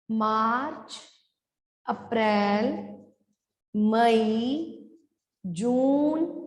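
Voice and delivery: slow drawn-out months, long vowels, rising on each; careful pronunciation model. Shown as a demonstration. Teacher modelling pronunciation for pupils, slow careful month list. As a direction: sound out each month fully, pausing between, जनवरी to दिसंबर. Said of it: "ध्यान से pronunciation सुनना".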